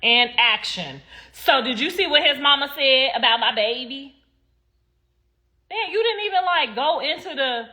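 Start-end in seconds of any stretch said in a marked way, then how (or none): 0.0-1.0 mocking director. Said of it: "she wiped that tear like". 1.3-4.1 overdone fake-sincere question, a bit higher; mock soap-opera line; mocking bad acting. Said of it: "the rhythm was all off".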